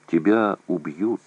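usual speaking voice

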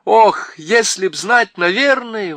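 high loud anxious cry; anxious exclamation. A narrator's reading. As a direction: wail it out, torn with worry. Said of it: "воскликнула Джилл". (взволнованно и громко, высоким голосом)

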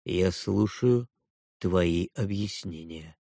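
slow, low, cold demand of a stern father. A narrator's reading. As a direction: speak down to the boy, slowly. (строгий отец, низко и медленно)

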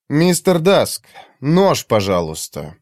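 polite words as a firm order; a calm order, not a request; commanding. Acted. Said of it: "явно не просьба".

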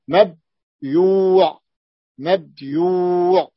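مبيوع stretched slowly, the yu held long; مبيوع drawn out slowly; drawn-out mabyu'. Shown as a demonstration. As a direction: demonstrate مبيوع slowly, sound by sound. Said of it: "مع قلب الضمة كسرة في الثاني".

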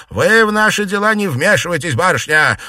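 high, loud curt rebuff; old aunt rudely cutting off the young lady; cutting off sharply. A narrator's reading. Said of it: "оборвала её старуха".

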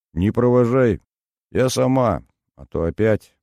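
голос вздрагивает; сдерживать слёзы, выше; дрожащий голос. A narrator's reading. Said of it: "Её голос вздрагивал". (Инна уходит, голос дрожит)

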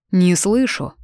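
the king demands she repeat her answer. A narrator's reading. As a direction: raise your voice, demanding. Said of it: "Кейден повысил голос".

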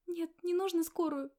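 put-on a scared girl begging not to call an ambulance; frightened protest. A narrator's reading. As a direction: blurt it out in a panic. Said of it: "испугалась девушка".

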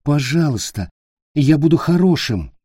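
a touch of desperate pleading; child promising to be good. Acted. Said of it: "взмолился Питер".

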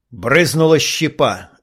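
usual speaking voice

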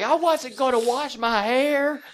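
high, slow, whiny wail; mock crying. Mimicking the drenched girl's upset complaint, mock crying. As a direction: imitate a tearful, protesting child. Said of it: "starts crying".

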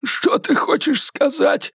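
high and slow, uneasy; sensing the danger in the words; wary high-pitched question; Eddie, frightened. A narrator's reading.

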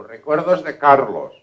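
acted booming hello; hearty greeting. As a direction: deliver the regards in a big, drawn-out voice. Same greeting repeated insistently.

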